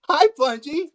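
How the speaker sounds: very high, eager puppet voice; squeaky puppet Plungy. Pretend. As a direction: play an affectionate little puppet, pitched right up.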